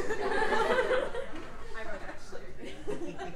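long, soft laughter; amused laugh. Real, not acted. Preacher laughing with congregation after a rant, soft laugh. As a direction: laugh quietly along with the crowd.

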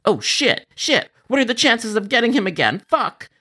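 high, panicked swearing under the breath; a rising flash of panic at getting him again. Acted. Jared panics on hearing the angry caller again, high and frantic.

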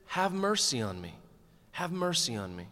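a hushed, softening plea for mercy; soft plea. Retold or imitated. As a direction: let the plea fade to a whisper-quiet. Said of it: "He says".

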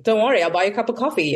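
quick, offhand reassurance; breezy retold offer, said quickly; casual generosity. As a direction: toss it off like a trivial favour. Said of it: "It's kind of as if".

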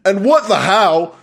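slow, hammed-up Aussie accent; unpractised Australian accent, stretched out. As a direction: read it in a put-on Australian drawl. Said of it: "Here comes the Aussie in me".

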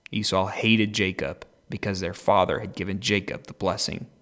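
animated, measured scripture reading; Bible story narration. A narrator's reading. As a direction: read the Bible story aloud with expression. Reads the Bible story aloud.

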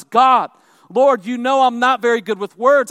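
loud, insistent acted plea to God; pleading. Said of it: "He's pleading with God".

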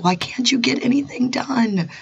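frustrated raspy whisper. Retold or imitated. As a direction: whisper it hoarsely, exasperated. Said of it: "and I'm like".

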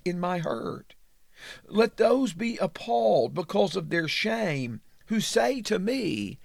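measured, earnest reading of a psalm prayer; lightly lifted Bible reading voice; scripture reading. Acted. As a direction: read it as a heartfelt plea to God. Reads the psalm aloud.

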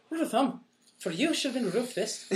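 high voice, laughing through the punchline; joking comeback. Retold or imitated. Retelling the movie comeback to friends, high and laughing. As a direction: crack the joke while laughing. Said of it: "He's like".

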